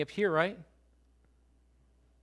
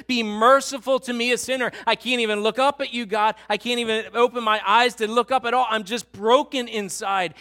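anguished plea; 3 semitones higher, 5 dB louder than usual. Acted. Preacher voicing the broken addict.

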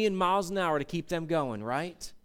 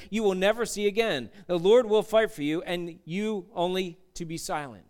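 calm reassurance. Retold or imitated. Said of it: "he's saying".

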